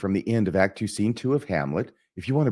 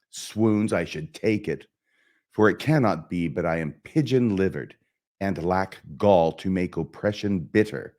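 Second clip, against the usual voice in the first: bitter self-reproach, theatrically declaimed; emphatic stage delivery, words bitten with contempt; Hamlet. Acted. Hamlet cursing himself and the villain, bitter stage declamation. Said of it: "try and just perform the soliloquy here".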